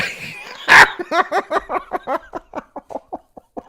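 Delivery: high burst trailing into wheezy silence; helpless laughter. Real, not acted. Streamer failing to be serious, long helpless high laugh. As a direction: explode laughing, then run out of air. Fails to get serious, cracks up.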